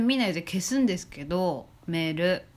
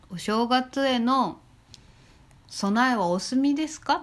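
ad voice; 5 semitones higher than usual. Retold or imitated. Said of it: "みたいな".

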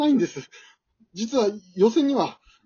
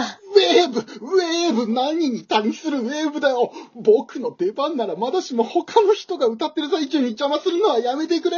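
exasperated outcry; 6 semitones higher than usual. Acted. Contestant scolding his family's wave from afar, exasperated higher outcry. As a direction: protest at the absurd wave. Relatives doing wave mid-song.

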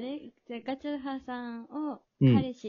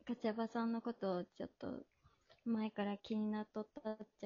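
shy Hakata-dialect confession; 5 dB quieter than usual. Pretend. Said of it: "これ言ってもらってもいいですか？".

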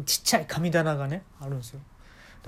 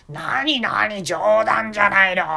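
high, loud flustered boss; flustered shop owner; 6 semitones higher, 9 dB louder, much slower than usual. Retold or imitated. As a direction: blurt it out, caught off guard. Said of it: "みたいなこと言って". (照れて慌てる大将の高い声)

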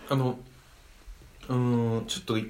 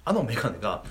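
laughing; 6 semitones higher, 7 dB louder than usual. Real, not acted. Laughing at unsellable glasses.

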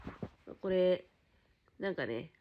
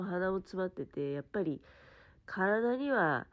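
stuffy-nosed voice from a blocked nose; nasal voice; 2 semitones higher than usual. Real, not acted. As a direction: speak through a blocked nose. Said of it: "今鼻声でしょ？".

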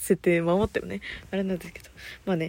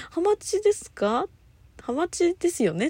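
mock surprised question; 10 semitones higher than usual. Retold misheard sushi question.

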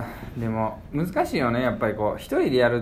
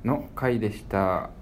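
slow, lowered sign-off; gloomy bad-end tone; slower than usual. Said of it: "ちょっとトーンを下げ気味で".

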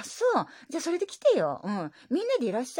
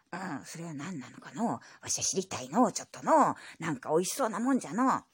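lightly voiced old grandpa; grumbly old grandpa reply; old man voice; 3 semitones lower than usual. Grandpa character voice.

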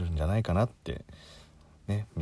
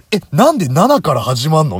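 high, loud disbelieving outburst; exasperated; 9 semitones higher, 12 dB louder than usual. Real, not acted. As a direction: throw up your hands in disbelief. Exasperated rant at phone menu.

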